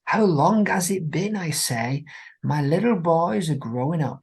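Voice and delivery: lightly voiced sweet old lady; Maud voice. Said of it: "and she speaks".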